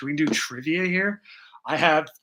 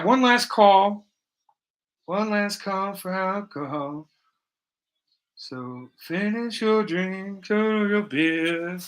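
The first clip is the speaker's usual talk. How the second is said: last call; much slower than usual. Pretend. Closing-time bartender call.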